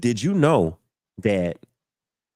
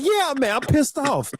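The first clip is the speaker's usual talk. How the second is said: higher, heated mock retort; retold anger; 13 semitones higher than usual. The speaker telling the woman he's mad, heated higher retort. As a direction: snap back, pitched well up. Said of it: "I'm like".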